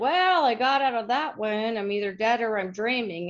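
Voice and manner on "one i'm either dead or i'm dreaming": normal talking voice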